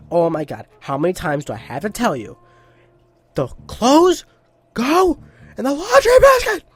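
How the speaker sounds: exasperated nagging building to a high, loud shriek; mock angry girlfriend. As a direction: play a fed-up scolding that explodes into screaming. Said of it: "would be super angry all the time".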